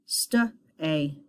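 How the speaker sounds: "St-a" in two parts, st then long A; sounded-out long A. Shown as a demonstration. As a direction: sound out "St-a", ending on the letter name A. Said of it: "long vowel sound".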